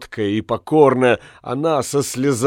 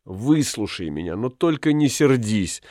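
quiet plea; 6 dB quieter than usual. Acted. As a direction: hush him, begging him not to be angry. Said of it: "снова заговорила она".

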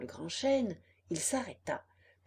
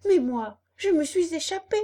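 high, loud breathless-style boast; excited puppet; 8 semitones higher, 8 dB louder than usual. Acted. Puppet tells fox and cat of his escape, excitedly. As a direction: pitch it high and burst out with it.

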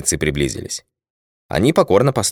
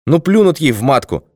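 put-on drunk bitter rant; 5 semitones higher than usual. A narrator's reading. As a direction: pour out drunken despair. Drunk colonel rants bitterly.

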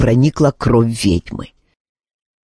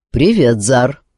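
calm; 3 semitones lower than usual. Acted. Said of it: "спокойно отозвался чародей".

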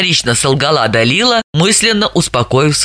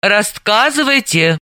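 stern command; 5 semitones higher than usual. Acted. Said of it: "строго повелела Далила".

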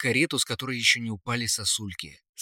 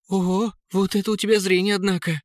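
high-pitched, amazed prince; admiring; 8 semitones higher, 4 dB louder, faster than usual. A narrator's reading. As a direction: marvel at it in a high voice. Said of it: "восхитился принц". (высоко, с восхищением)

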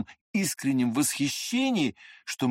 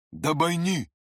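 mild shout; 4 semitones higher than usual. A narrator's reading. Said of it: "крикнул Длинный".

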